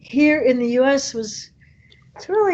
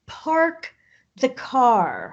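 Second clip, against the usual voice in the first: Boston accent; much slower than usual. Shown as a demonstration. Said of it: "we would say".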